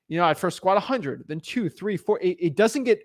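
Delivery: ordinary delivery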